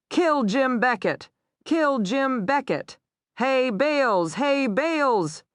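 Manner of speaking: high, calling shouts; crying out. A narrator's reading. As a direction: yell across the room at him. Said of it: "Tess cried".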